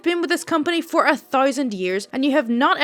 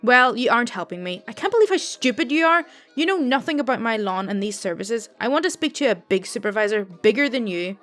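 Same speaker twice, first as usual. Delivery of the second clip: louder, mock-furious old lady; angry customer; 4 dB louder than usual. Rude old customer insults the call center agent, loud and angry. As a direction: snap at the agent, lightly voiced old Italian woman. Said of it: "elderly Italian lady and clearly a smoker from her voice".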